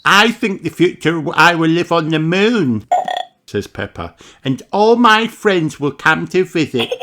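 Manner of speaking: put-on a bright child offering an idea; little Peppa voice. Peppa answering her teacher, high child voice.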